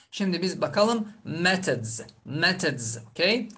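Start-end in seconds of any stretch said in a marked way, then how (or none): 1.2-3.0 "methods" with a voiced z ending; final z sound. Shown as a demonstration. Teacher models the plural ending, final z sound. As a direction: draw out "methods" to its buzzing final z. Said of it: "Z, sonunda z".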